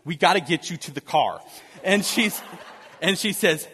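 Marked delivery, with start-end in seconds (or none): 0.0-1.4 a touch of mock sternness; lightly put-on firm, serious instruction; stern voice. Husband tells laboring wife to head for the car, mildly stern. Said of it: "In my s-, most stern voice".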